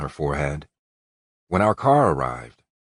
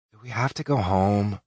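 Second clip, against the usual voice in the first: higher, whiny plea; whining; 5 semitones higher than usual. Acted. Allie whining to Colt about going home, mock whine. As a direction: whine like a kid who won't leave. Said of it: "Allie whined".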